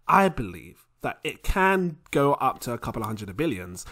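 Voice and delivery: ordinary talk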